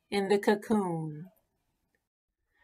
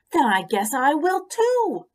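happily; 8 semitones higher, 7 dB louder than usual. Acted. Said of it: "the pollywog said happily".

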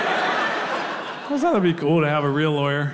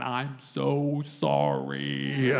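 very slow, softened, exaggerated apology; mouthed apology; 3 semitones lower, 6 dB quieter, much slower than usual. Handcuffed friend to the comic, mouthing an apology. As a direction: stretch each word as if mouthing it silently. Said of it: "he's mouthing the words over and over".

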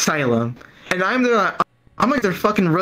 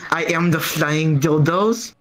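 put-on German accent; 2 semitones lower, slower than usual. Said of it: "The German woman".

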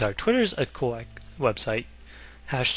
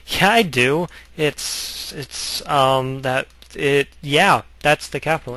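louder, fumbling fake confidence; bluff, stammer, then push through; imagined stranger caught bluffing about the capital; flustered bluffer; 2 semitones higher, 5 dB louder, slower than usual.

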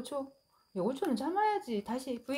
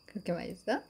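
laughing; 3 dB quieter, faster than usual. Real, not acted. Laughing at eating cat.

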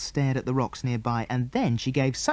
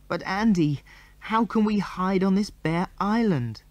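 Mary's voice; 7 semitones higher than usual. A narrator's reading. Mary voiced, tearful.

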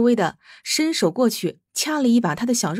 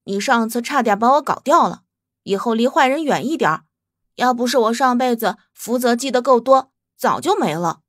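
stubborn warning. Acted. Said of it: "梗着脖子提醒道".

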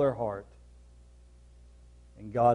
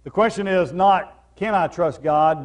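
louder and higher, pressing the question; raised preaching voice; 5 semitones higher, 5 dB louder than usual. Real, not acted. Preacher to congregation, raised and pressing. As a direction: preach it out to the room.

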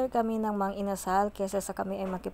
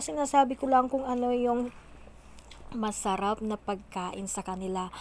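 talking with food in mouth; speaking between bites of chicken; chewing while talking. Real, not acted. Seen 3: Eats grilled chicken throughout, chewing visible around 1.8, 7.8, 8.9.

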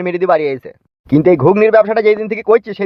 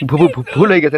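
flustered stammer; 4 semitones lower than usual. Acted. Caught out, stammers an excuse.

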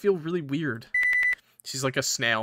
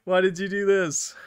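louder, higher reproach; accusing; 5 semitones higher, 4 dB louder than usual. Acted. Game voice accusing the player of cruelty, louder and higher. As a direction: scold them in disbelief.

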